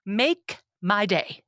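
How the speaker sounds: slow, drawn-out tough-guy line; lightly voiced Eastwood, dragging each word; Clint Eastwood growl. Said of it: "Clint Eastwood".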